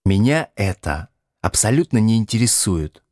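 a cold, curt reply; curt cut-off. Acted. Надя обрывает Будкина, резко и холодно. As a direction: shut him down in a word. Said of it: "отрезала Надя".

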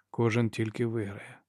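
echoing the soldier's words, soft and slow; quiet echo. Acted. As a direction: echo the phrase quietly, slowing down.

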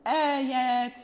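"آيات" with a light, fronted long "aa"; thin hamza. Shown as a demonstration. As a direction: keep the opening hamza and alif of "آيات" thin. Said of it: "نقول".

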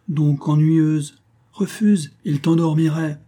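high, slow mocking kid; teasing child. A narrator's reading. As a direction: drawl it to tease.

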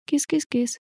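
high soft coaxing kitty call; calling a cat. A narrator's reading. Heroine softly calls the hiding cat, high coaxing. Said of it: "позвала".

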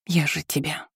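barely voiced, losing strength; whispered. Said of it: "прошептала Диана". (шёпотом, обрываясь)

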